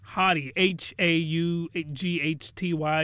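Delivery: haughty spelled letter by letter, slow. Shown as a demonstration. Host spelling the word haughty slowly. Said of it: "not haughty, but".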